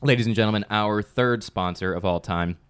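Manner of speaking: slow, showy sponsor introduction; announcer ad read. Pretend. Podcast host introducing sponsor to listeners, showy announcer read. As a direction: draw out each phrase like an announcer.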